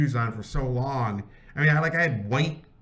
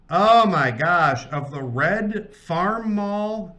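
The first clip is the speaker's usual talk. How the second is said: amazed; 3 semitones higher, 4 dB louder, much slower than usual. Real, not acted. Moved by tractor picture.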